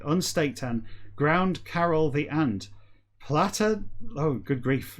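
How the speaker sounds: measured audiobook-style reading; story narration. Acted. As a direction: read it out evenly, phrase by phrase. Resumes reading the scrambled book.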